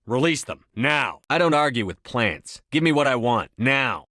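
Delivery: firm, pressing demand; stern command. Acted. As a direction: lean on each order, no give. Demanding the Thorian release thralls.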